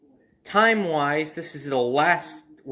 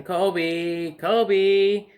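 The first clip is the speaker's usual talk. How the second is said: mother calling the dog from the deck, rising and louder; 4 semitones higher, 3 dB louder than usual. Retold or imitated. Mother on the deck calls for the missing dog, rising call. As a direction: call out across the backyard. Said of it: "And she calls him".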